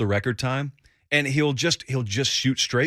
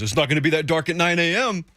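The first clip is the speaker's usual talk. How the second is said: defiant retort, pitched up; mock-defiant contradiction, voice raised in pitch; 5 semitones higher than usual. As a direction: push back on the obvious as if challenged. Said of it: "say it in a defiant tone".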